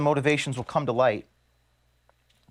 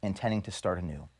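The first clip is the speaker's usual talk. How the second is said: softer, apologetic and choked; fighting back emotion while saying goodbye; quiet, moved apology; emotional; 4 semitones lower, 5 dB quieter, faster than usual. Real, not acted. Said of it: "I'm getting emotional".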